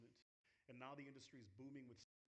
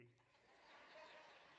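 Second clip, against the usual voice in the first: slow words through laughter; laughing; 4 semitones lower, 8 dB quieter than usual. Real, not acted. Speaker jokes about his pay to the crowd, laughing. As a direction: still chuckling as he speaks.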